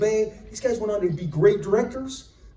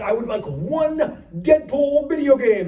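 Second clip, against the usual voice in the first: polite order; 6 semitones higher, 3 dB louder, slower than usual. Retold or imitated. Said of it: "I said".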